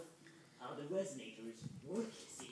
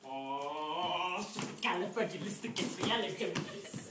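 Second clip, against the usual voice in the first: articulated tongue-twister; 3 semitones higher, 6 dB louder than usual. Shown as a demonstration. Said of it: "it sound a lot like this".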